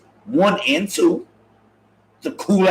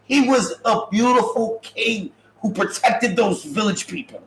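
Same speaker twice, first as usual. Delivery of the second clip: impassioned defense; 6 semitones higher than usual. Real, not acted. Telling Tracy, defending King Kong, high and impassioned.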